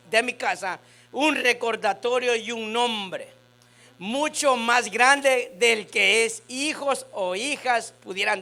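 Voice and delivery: slow, measured Bible proclamation; scripture reading. Acted. Pastor reads verse five to the congregation, slow proclamation. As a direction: read the promise out slowly, phrase by phrase.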